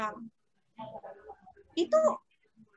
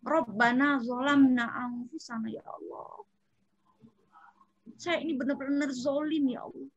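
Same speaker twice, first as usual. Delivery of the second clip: pretend confession prayer. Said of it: "pengakuan Nabi Adam".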